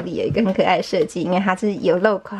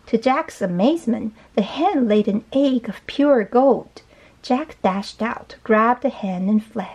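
slow, measured storybook reading; story narration; 3 semitones higher, slower than usual. A narrator's reading. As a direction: read slowly to a young child. Reads the story aloud.

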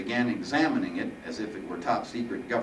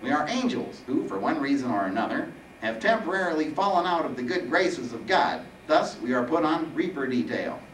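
slightly higher, nasal Reaper; explaining Reaper; 6 semitones higher than usual. Acted. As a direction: explain your lot as the lightly voiced weeny Reaper.

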